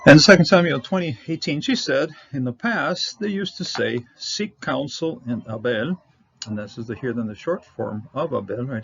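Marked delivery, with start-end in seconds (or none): 0.0-6.0 raised, louder verse reading; scripture reading. Acted. Teacher reads a Bible verse to students, raised reading voice. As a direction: announce the verse, then read it out clearly.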